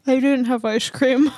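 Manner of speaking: talking through peanut butter; words round a sticky mouthful; mouth full. Real, not acted. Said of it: "And then tries to talk".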